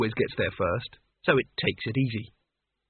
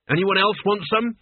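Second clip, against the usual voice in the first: snarl; 6 semitones higher than usual. A narrator's reading. Mort to the guards, snarled challenge. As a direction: dare the guards to try. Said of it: "he snarled".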